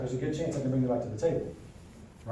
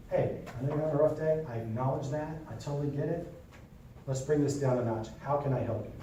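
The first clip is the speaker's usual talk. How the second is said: calm de-escalating; 2 semitones lower, 4 dB quieter than usual. Shown as a demonstration.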